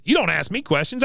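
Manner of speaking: mock pulling rank; Cotton. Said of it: "He says".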